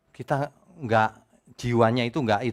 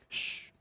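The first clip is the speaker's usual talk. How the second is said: shushing; 15 dB quieter than usual. Retold or imitated. Mock church shushing.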